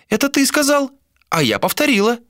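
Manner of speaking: put-on high old seer's voice; old woman voice. A narrator's reading. Old seer voiced by narrator.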